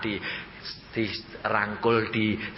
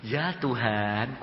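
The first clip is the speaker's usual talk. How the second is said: slow, soft reply to God; hushed, devout re-enactment; reverent answer; 3 dB quieter, much slower than usual. Retold or imitated. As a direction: answer the Lord softly, drawn out. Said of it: "saya ngomongnya gini".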